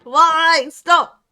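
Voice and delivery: loud, high, repeated wails of why; real exasperated shouting; anguished cries. Real, not acted. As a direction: cry out in despair at each fall. Repeated cries while falling.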